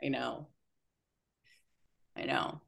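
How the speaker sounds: holding back real tears; choked up. Real, not acted.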